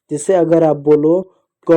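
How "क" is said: "क" held long so the final "अ" rings out; drawn-out vowel. Shown as a demonstration. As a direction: stretch the vowel at the end of "क". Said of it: "last में खो अ ऐसा सुनाई".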